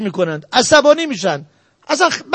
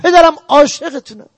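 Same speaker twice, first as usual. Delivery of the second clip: raised, affectionate demo of loving words; loving words to father; 3 semitones higher, 4 dB louder than usual. Shown as a demonstration. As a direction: say it warmly while kissing his hand. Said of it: "دستشو ببوس". (ابراز محبت به پدر با صدای بلندتر)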